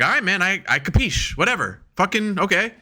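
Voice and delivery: high, grudging give-in; mock exasperated. Teammates humouring their leader, mock exasperated. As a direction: give in just to end it.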